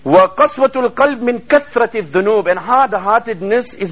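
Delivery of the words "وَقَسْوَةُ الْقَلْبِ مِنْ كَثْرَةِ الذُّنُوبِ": rapid chanted Arabic quotation; Arabic recitation. Acted. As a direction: rattle off the Arabic saying in one breath.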